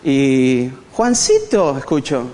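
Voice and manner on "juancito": wife calling out. Retold or imitated. Wife calls him from kitchen.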